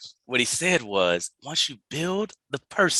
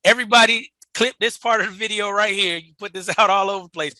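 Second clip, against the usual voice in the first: much higher and louder, bursting in with delight; excited interruption; 9 semitones higher, 8 dB louder, faster than usual. Real, not acted. Cohost hypes up the audience over a quotable line, excited and loud. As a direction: cut him off, thrilled at the line. Cohost stops him, hyped up.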